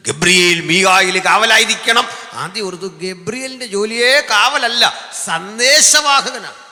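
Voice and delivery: high, loud preaching burst, the last word slowed right down; full-force preaching. Acted. Preacher booming to the congregation about Gabriel's job. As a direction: thunder it out from the pulpit.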